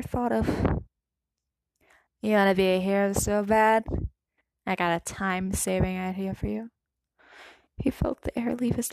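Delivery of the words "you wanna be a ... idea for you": sneering bully voice. A narrator's reading. Bakugo's taunt voiced in story.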